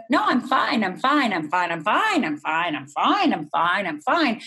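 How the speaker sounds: singsong, bouncing up and down; repeating I'm fine like a mask; mock reassurance. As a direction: chant the brush-off, pitch swinging.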